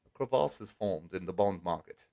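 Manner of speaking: low, soft fake European accent. Streamer jokes about bond market cracks, fake European accent. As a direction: intone it softly in a put-on European accent. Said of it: "that's my fake European accent".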